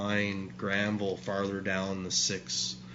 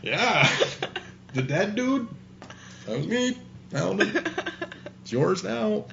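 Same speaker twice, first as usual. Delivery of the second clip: sarcastic handoff; 11 semitones higher than usual. Retold or imitated. Jokingly handing off the body.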